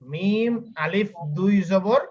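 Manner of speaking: slow, stretched letter names, rising at the end; drawn-out spelling drill. Shown as a demonstration. Teacher prompting a student to finish the spelling, slow drawn-out drill. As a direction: spell it out slowly, leaving the answer open.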